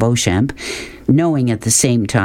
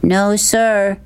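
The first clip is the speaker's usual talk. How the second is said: higher, meek answer; polite boy; 10 semitones higher than usual. A narrator's reading. Boy answers the man in the Jeep, polite.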